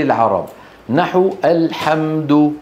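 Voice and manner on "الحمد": الحمد with a clear pharyngeal ح; correct Ha sound. Shown as a demonstration. Teacher showing students the example word, correct ح. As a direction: slowly model الحمد with a pure ح.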